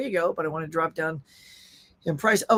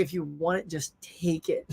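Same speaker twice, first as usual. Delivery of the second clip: soft shrug; 3 semitones lower, 9 dB quieter than usual. Retold or imitated. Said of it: "My wife would just be like".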